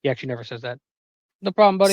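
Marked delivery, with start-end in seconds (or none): 1.4-1.9 Eddie voice. Retold or imitated. Voicing Eddie.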